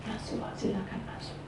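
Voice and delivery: very soft, breathy-quiet prayer; hushed invitation. Acted. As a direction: gently invite someone in, barely voiced. Models humble prayer inviting Jesus in.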